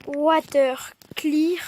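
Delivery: slow, drawn-out English accent; mock English accent. Shown as a demonstration. Gamer showing off a game command, mock English accent. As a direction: put on an English accent, slowly. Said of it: "Avec mon superbe accent anglais".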